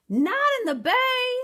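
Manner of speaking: very high, loud panicked giant; giant cries out. A narrator's reading. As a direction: stop her in alarm. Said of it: "the giant cried".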